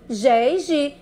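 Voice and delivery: "Gé e Gi" with a zh sound, like J; "Gé e Gi" demonstrated with soft G. Shown as a demonstration. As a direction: sound out "Gé e Gi" with the Portuguese J sound. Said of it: "é o sonzinho do J".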